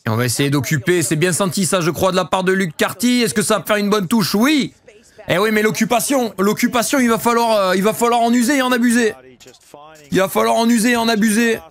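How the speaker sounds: rugby commentator in full flow; live play-by-play. Real, not acted. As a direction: call the kick as it unfolds, pitch climbing and staying up. Live play-by-play of a kicking move.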